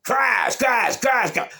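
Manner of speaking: loud, very high shouts for each punch; shouted blow noises. Retold or imitated. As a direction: act out rapid hits, voice leaping up. Acted blows in fight story.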